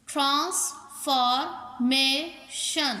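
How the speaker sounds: transformation in four slow beats, trans, for, ma, tion; teacher sounding out trans—for—ma—tion; split into syllables. Shown as a demonstration. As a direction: say transformation with a gap after every syllable. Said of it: "चार vowel sound देते हों".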